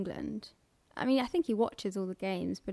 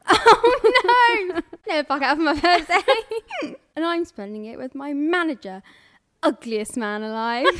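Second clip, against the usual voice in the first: words through laughter, louder; laughing while talking; 5 semitones higher, 9 dB louder than usual. Real, not acted. Friend cracking up at a film quote, laughing. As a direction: giggle through every word.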